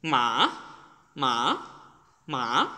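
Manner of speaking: sharp downward মা; falling fourth tone. Shown as a demonstration. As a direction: let go of মা so it falls. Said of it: "then হচ্ছে এটা নিচে পড়ে যাবে".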